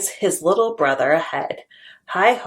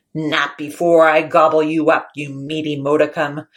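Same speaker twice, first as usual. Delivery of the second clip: louder troll threat; booming troll; 3 semitones lower, 5 dB louder than usual. Acted. Troll threatening middle goat, louder. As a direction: boom it up from below. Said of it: "Troll booms from below".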